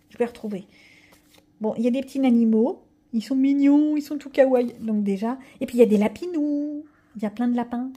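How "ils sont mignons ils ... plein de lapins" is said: gushing cute. Real, not acted. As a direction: squeal over cute bunnies. Gushing over cute animals. (voix attendrie et enthousiaste)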